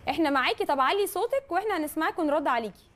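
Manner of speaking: to someone hard of hearing. Real, not acted. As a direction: speak up over a bad line. أنا مش سامعة كويس.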